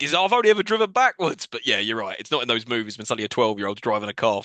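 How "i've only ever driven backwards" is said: higher voice, lightly imitated panic; mock panic. Boy panicking at the wheel, retold in mild panic. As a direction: protest with a touch of mock alarm. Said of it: "but he's panicking".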